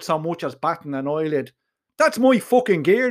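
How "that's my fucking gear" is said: angry high-pitched shout; outraged, raised voice. Acted. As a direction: shout it in protest, pitch jumping up. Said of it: "he shouted".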